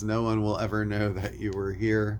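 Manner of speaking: ordinary delivery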